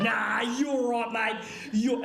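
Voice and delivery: slow mock Aussie "Nah, you're right, mate" with restraint; a touch of a hammed-up Aussie bloke; passive-aggressive Aussie. Shown as a demonstration. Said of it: "the most passive-aggressive Aussie male thing".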